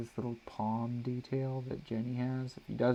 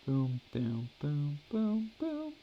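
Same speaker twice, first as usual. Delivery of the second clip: rising booms; 4 dB quieter, much slower than usual. Real, not acted. Drawing for the stream, booms rising playfully. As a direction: play it up like a sound effect. Sound effects climbing while drawing.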